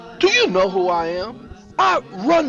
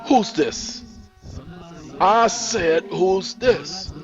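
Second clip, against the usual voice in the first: raised, insistent questioning; angry demand; 9 semitones higher, much slower than usual. Acted. Henrik grabbing the phone to confront the caller, angry.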